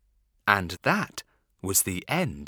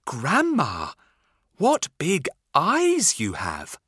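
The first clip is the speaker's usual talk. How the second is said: put-on little girl; 5 semitones higher, 3 dB louder than usual. Red Riding Hood asks.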